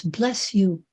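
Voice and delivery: softly blessing. Acted. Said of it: "A man says".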